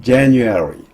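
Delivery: "January" with JAN punched, the rest running quickly; stress on first syllable. Shown as a demonstration. Teacher giving a repeat-after-me model, strong first syllable. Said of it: "제를 강하게 발음하고".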